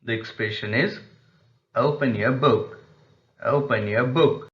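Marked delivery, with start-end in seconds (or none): 1.7-2.8 "Open your book" lifting on "book"; rising tone request. Shown as a demonstration. Teacher models making a request, rising tone. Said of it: "it is used for making a request". 3.4-4.5 "open your book" with "book" tipped upward; rising tone request. Shown as a demonstration. Teacher repeats the request example, rising tone. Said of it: "it is used for making a request".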